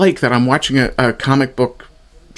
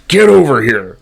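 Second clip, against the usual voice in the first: a light mock Scorpion yell, slightly louder; Scorpion impression; 5 dB louder than usual. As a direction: toss off a half-hearted Get over here. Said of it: "Scorpion impression from Mortal Kombat".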